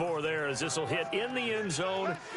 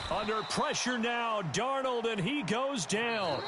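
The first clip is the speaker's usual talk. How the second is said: raised pitch with a stretched finish; excited play-by-play; 6 semitones higher than usual. Real, not acted. Commentator calls the quarterback going down, excited. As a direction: build urgency, then draw out the tackle.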